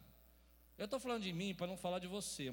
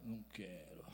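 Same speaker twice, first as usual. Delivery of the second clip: low, soft sulking refusal; a sulky husband's low refusal; 12 semitones lower, 10 dB quieter than usual. Retold or imitated. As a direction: mumble it like a moody husband. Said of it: "Aí você fala".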